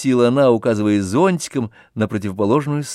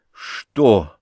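a brief, mildly startled question; a small flinch of fright. A narrator's reading. Oblomov, frightened, asks Olga what she means, startled. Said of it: "с испугом".

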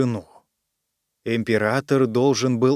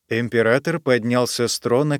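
usual speaking voice

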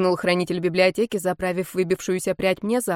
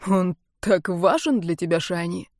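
bitterly mocking. A narrator's reading. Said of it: "спросил хранитель библиотеки насмешливо горько".

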